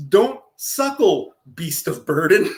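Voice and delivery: slow, overly formal "Don't suckle"; mock-grave literal translation; deadpan literal reading. Shown as a demonstration. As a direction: read it slow like a solemn decree. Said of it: "Technically translated to English is".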